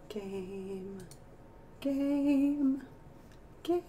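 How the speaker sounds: cracking, strained voice; losing voice. Real, not acted. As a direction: voice giving out. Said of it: "I'm losing my voice now".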